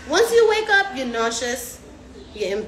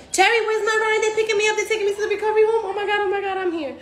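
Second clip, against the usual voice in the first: higher, fast, laughing excitement; giddy arrival; 9 semitones higher, faster than usual. Pretend. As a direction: gush breathlessly as you land. Patient arriving, thrilled.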